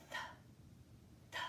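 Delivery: th hissed alone with no vowel; th sound. Shown as a demonstration. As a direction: model the th sound for kids. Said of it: "T H makes the th sound".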